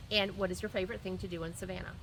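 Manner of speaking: hurrying through before the rain; speeding up. Real, not acted. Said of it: "That's why I'm talking faster and faster".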